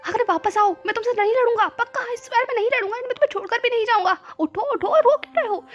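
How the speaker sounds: high, urgent begging; pleading promise. A narrator's reading. Man begging his crying partner to wake, high pleading. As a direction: beg him to stop crying.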